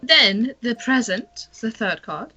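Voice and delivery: mystic fortune teller. Acted. Fortune teller reads cards.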